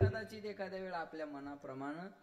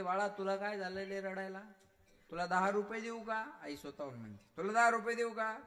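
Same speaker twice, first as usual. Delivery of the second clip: high, coaxing voice of a mother; a mother pleading with her baby; 5 semitones higher, 6 dB louder than usual. Retold or imitated. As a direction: coax the little one gently but loudly.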